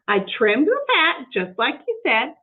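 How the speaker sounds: eager, innocent housekeeper talking to herself; Amelia Bedelia voice. Acted.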